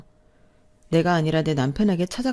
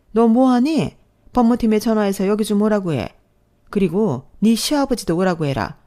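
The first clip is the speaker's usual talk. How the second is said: sharp command; 2 semitones higher than usual. Acted. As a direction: cut in with authority. Mother-in-law commands daughter-in-law sharply.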